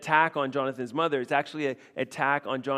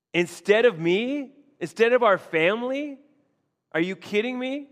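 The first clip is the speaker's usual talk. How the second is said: much higher, louder, outraged disbelief; incredulous anger; 7 semitones higher, 6 dB louder than usual. Retold or imitated. Saul outraged at Jonathan siding with David, much higher and louder. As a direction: demand how he could. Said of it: "another way of saying".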